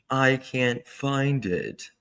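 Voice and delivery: drawn-out, slow put-on accent; K K's fake accent. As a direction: mimic her accent, stretching each word slowly. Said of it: "when she does that one".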